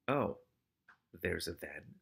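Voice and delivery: mild, low and soft calm; understated, unruffled character voice. A narrator's reading. Keith answering the rat catcher's trailing excuse, calmly. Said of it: "said Keith calmly".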